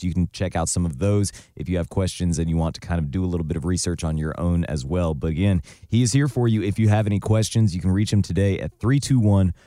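hoarse, rough-throated voice; talking through a croaky throat. Real, not acted. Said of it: "my, uh, croaky voice".

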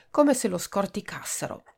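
ordinary delivery, nothing marked

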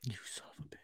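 hushed mock curse; whispering. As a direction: breathe it out, no voice. Mock outrage at rival's pick.

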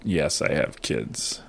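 slow, quiet, drawn-out confession; halting, strangely measured delivery; oddly slow talk. Real, not acted. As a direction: say it very slowly and low. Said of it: "Why am I talking like this?".

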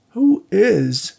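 high, awkward chuckle through the words; awkward laugh. A narrator's reading. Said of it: "laughing awkwardly".

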